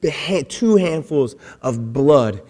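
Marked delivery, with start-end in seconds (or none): none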